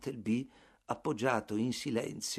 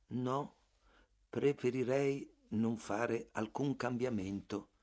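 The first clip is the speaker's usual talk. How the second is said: sommesso; 6 dB quieter, slower than usual. Acted. Bartleby rifiuta, sommesso e lento.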